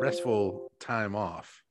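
slow, sleepy trailing words; drowsy, barely awake; nodding off. Real, not acted. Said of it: "I'm falling asleep right now".

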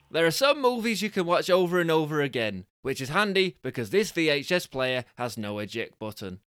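lively prize-reveal patter; punchy announcer read, easing after the first phrase; game show prize announcer. Acted. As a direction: sell the prizes with showy cheer.

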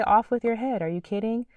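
mock royal outrage; angry king. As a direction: bellow it like an offended king. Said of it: "He'll say".

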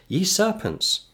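high, slow, cutting cry; scornful cry. Acted. Jesus calling the Pharisees serpents, slow scornful cry. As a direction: draw out the insult with scorn.

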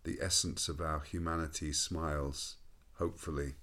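slow, measured poetry reading; poem recitation. Acted. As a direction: recite it slowly and reflectively. Reads his own poem.

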